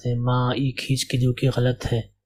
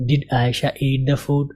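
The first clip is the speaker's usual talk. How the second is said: slow model reading; slower than usual. Shown as a demonstration. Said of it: "میں آپ کو شو کروں گا result".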